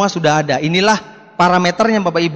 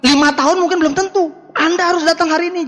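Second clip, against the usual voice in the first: urgent pushy pitch; 6 semitones higher than usual. Acted. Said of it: "Urgent, mendesak".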